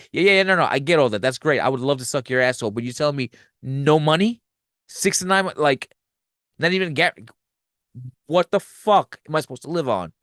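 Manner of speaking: retold indignant outburst, cutting the boss off; mildly heated mock tirade, tumbling over objections; letting loose. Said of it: "she just fucking lets loose".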